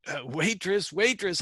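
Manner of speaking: mild mock alarm; alarmed call. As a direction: flag her down in a mild panic. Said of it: "I got a little bit excited".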